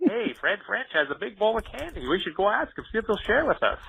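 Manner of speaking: light, high mock child voice; plotting kid. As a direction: scheme like an eager kid.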